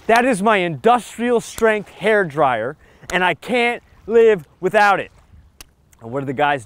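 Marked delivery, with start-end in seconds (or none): 0.1-5.1 higher, slow mock whiny princess; spoiled princess. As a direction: ham up the rude princess defending her hair dryer. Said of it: "And the girl goes".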